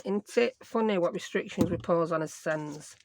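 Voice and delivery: broad Yorkshire, "as sens" for ourselves; Yorkshire dialect. Shown as a demonstration. Crafter rewording her own remark for viewers, in Yorkshire. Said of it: "I'll say it in Yorkshire".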